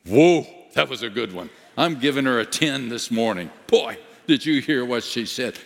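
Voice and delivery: lightly voiced excited angel judge; hammed-up angel admiring a prayer; impressed angel judge. Angel judge praising a good prayer, lightly excited.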